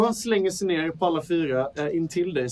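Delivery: usual speaking voice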